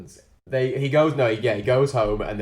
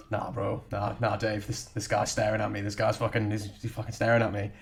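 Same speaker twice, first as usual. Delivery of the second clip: wary aside; 6 dB quieter than usual. Retold or imitated. The speaker tells Dave a guy is staring, in a wary undertone. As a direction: keep it down, imitating a suspicious man.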